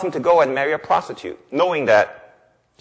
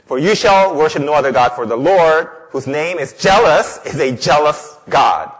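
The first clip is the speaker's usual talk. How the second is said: loud, declarative Bible verse; firm pulpit proclamation; emphatic scripture reading; 2 semitones higher, 6 dB louder than usual. Real, not acted. Reads scripture forcefully.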